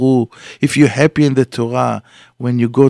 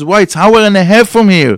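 high, loud incredulous why; can't believe the distance; astonished question; 7 semitones higher, 6 dB louder than usual. Acted. A driver at the bus stop, loudly astonished.

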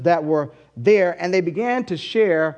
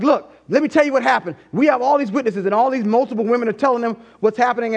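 eager women; 5 semitones higher, faster than usual. Retold or imitated. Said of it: "they're like".

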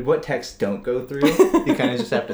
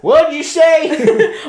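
very slow, high, loud hick voice; drawn-out mock redneck yell; hammed-up hick; 11 dB louder, much slower than usual. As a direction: holler it like a cartoon bumpkin, laughing. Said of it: "a guy, like, holding his sister's hand".

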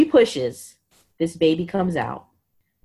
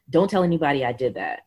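lower, quick, unemotional order; quick deadpan, pitched down; imitated stone-cold delivery; 5 semitones lower, faster than usual. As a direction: mimic a stone-cold doctor. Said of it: "Literally stone cold face".

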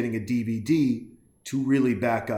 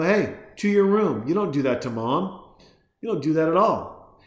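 stern scolding; 4 semitones higher, 3 dB louder than usual. Retold or imitated. Parent scolding the kid.

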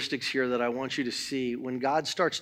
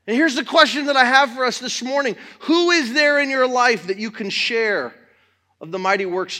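loud, fervent pulpit preaching, pushing the congregation; preaching at full force; 8 semitones higher, 8 dB louder than usual. Acted. Pastor rousing the church about testifying, fervent loud preaching. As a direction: drive it home to the church with rising fire.

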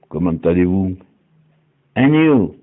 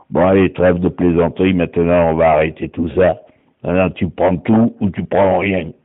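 voix plus grave de dur à cuire, détachée; caïd sûr de lui; 7 semitones lower than usual. Acted. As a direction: joue le caïd qui s'en moque, posé et grave. Dur qui pose ses conditions. (un dur qui lâche ses démos à prendre ou à laisser, voix grave)

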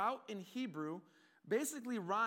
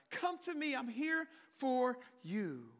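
rising plea; 2 semitones higher, slower than usual. Pretend. Voicing God calling, repeating louder.

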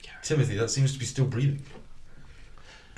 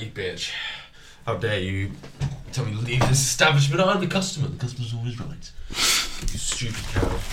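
mock angry customer. Player as customer thrown out of the shop, mock angry. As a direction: play an outraged customer working up a rant. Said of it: "Get angrier by the minute".

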